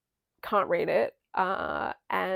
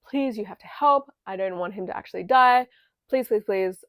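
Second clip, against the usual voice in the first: louder, urgent mock plea; frantic pleading; 7 dB louder than usual. Nessarose begging Elphie to save Bok, loud pleading. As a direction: beg her loudly to save him. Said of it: "she's like".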